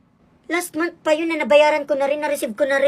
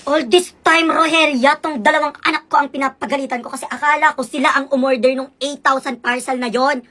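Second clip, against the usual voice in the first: accusing scold; 5 dB louder than usual. Acted. Mother scolding the neighbor.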